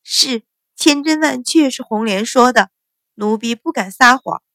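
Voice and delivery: mildly anxious rapid assurance; hurried insistence. Acted. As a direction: swear to it in a hurry. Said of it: "锦儿连声道".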